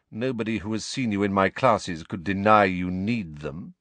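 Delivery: disdainful schoolmaster, clipped orders; cold Snape-like teacher. Acted. Snape ordering Harry to remedial lessons, sneering. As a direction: look down on the boy as you set the time.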